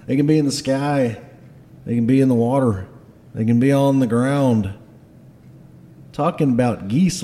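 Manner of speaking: grave Scottish dwarf warning; emphatic, dramatic Scottish accent; Garm. Acted. Dwarf boss revealing the fearsome beasts to his lads, Scottish accent. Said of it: "has a Scottish accent".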